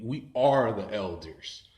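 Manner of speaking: slow, drawn-out declaration; spirit speaking through godbrother. Retold or imitated. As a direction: stretch it out with weight. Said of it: "it was his spirit, like, came out of him".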